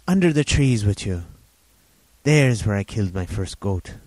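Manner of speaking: lightly voiced rambling old sailor; a hint of an eager half-mad hermit; old castaway Ben Gunn.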